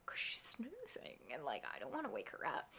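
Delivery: soft whisper about a sleeper. Real, not acted. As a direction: hush so she won't wake. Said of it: "being kind of quiet".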